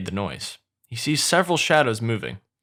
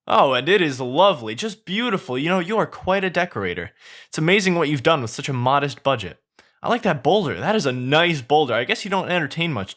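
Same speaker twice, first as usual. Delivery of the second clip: high, excited chattering donkey; 6 semitones higher than usual. Acted. Donkey flatters Shrek in a high excited voice. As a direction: gush at him, high and eager.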